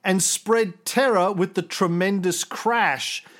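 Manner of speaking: put-on measured reading of an old text; reading aloud. Host reading the ancient source aloud, measured. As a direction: read the passage out steadily. Reads out Tacitus passage.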